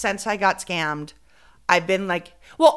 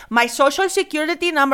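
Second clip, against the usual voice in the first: higher-pitched imitation of mom; imitating mom; 9 semitones higher, 4 dB louder, faster than usual. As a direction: put on mom's voice, pitched up. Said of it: "This is literally my mom".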